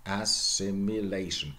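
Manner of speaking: ASSIMILATION ending "LAY-shun"; modern pronunciation. Shown as a demonstration. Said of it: "this is true for all".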